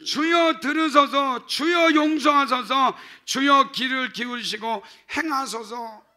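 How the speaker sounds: each Lord shouted high and loud; triple cry of Lord. Shown as a demonstration. Pastor demonstrates the threefold cry of Lord, shouting. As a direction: cry out three times to God. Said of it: "그러니까".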